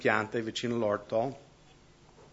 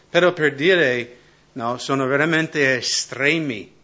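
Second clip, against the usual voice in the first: emphatic preaching; 2 semitones higher, 7 dB louder than usual. Real, not acted. Preacher stresses extreme hunger.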